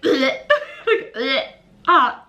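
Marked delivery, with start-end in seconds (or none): 0.0-0.3 disgusted ugh. Retold or imitated. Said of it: "Some of them I actually was like". 1.2-1.4 disgusted ugh. Retold or imitated. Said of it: "Some of them I actually was like".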